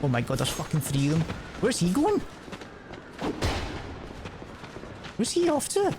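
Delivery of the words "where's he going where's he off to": surprised. Real, not acted. Enemy walking off.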